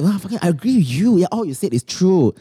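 sarcastic agreement. Acted. Coach faking agreement with a venting client, sarcastic. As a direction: play along with heavy sarcasm. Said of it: "because being very sarcastic".

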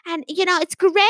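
high, sing-out Yorkshire sales patter; Yorkshire psychic impression. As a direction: pitch to livestream viewers in a put-on Yorkshire accent. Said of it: "Yorkshire accent".

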